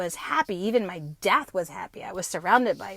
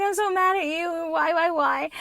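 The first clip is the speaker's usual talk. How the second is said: retold anger; 7 semitones higher than usual. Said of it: "I was like".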